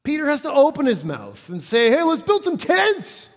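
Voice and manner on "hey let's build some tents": high, loud, drawn-out mock enthusiasm; overeager blurting. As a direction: blurt it like a clueless eager disciple. Mimics Peter blurting out foolishly.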